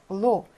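"blow" said as a stressed "plo"; stressed syllable. Shown as a demonstration. Teacher points out the stress, "blow" said alone as "plo". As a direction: put the stress squarely on "blow". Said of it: "강세가 여기 있어요".

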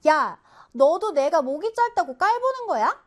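mildly angry acted challenge. Giraffe confronts zebra about its short neck, angry. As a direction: confront them with a touch of storybook anger. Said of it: "지피는 화가 났어요".

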